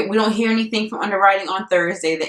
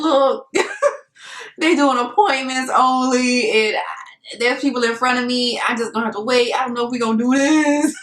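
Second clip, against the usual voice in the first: stressed rush; 6 semitones higher than usual. Retold or imitated. Calling realtor, stressed.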